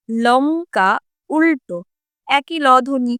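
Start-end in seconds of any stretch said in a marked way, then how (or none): 0.1-1.8 লঙ্কা and উল্টো said separately, each word set apart; word-by-word demo. Shown as a demonstration. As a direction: split লঙ্কা from উল্টো to contrast their ল sounds. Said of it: "দুটো লয়ের উচ্চারণে কি কোনো difference".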